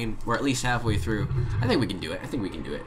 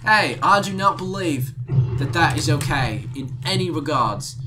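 put-on British accent. Carrying on the yelling-at-cars bit, British accent. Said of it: "in a British accent".

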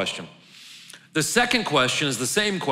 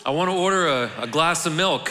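put-on jokey, amateur British accent, pitched up; 5 semitones higher than usual. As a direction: order like a hammed-up British chap. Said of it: "that's my best British accent".

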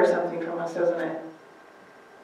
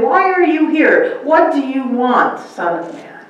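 a hammed-up demonic challenge; demons confronting Jesus; 3 semitones higher than usual. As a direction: confront him as the frightened demons. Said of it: "they ran up to him and said".

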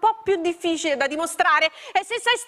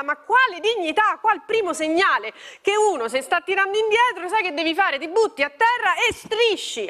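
exasperated; 5 semitones higher than usual. Acted. Scolding mother over dignity.

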